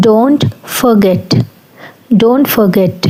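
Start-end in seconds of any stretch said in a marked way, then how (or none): 0.1-1.3 stretched out, each word spaced for learners; slow drill. Shown as a demonstration. Teacher modelling a phrase for learners, very slowly. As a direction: say it very slowly so students can copy. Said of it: "మర్చిపోకు".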